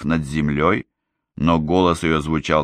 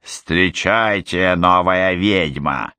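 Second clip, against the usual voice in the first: mild mutter; slower than usual. Acted. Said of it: "пробормотала Момби".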